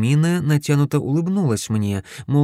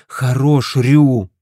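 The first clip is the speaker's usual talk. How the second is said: loud angry cut-off; 2 semitones higher, 7 dB louder, much slower than usual. A narrator's reading. Sister angrily stopping her brother, loud. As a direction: snap at him to stop. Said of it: "посмотрела на меня со злостью".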